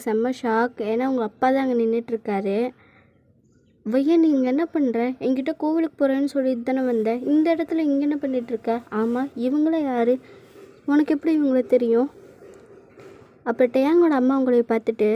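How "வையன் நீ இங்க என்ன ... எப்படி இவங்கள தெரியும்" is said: loud, demanding father catching her out; loud confrontation. Acted. Father catching daughter at the mall with boyfriend, loud and stern.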